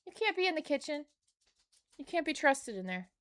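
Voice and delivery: scolding a pet. Real, not acted. Scolding the dog.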